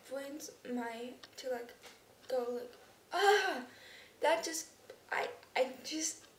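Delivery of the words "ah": loud, high exasperated "ah!"; exasperated outburst; frustrated groan. Retold or imitated. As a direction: burst out a frustrated cry. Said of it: "I get really frustrated".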